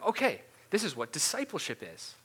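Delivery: cheery pitch lift with a sentence-end upturn; upbeat upspeak. Acted. Campus leader explaining discipleship to someone, upbeat upspeak. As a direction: put on an encouraging upspeak. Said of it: "go up at the end of all your sentences".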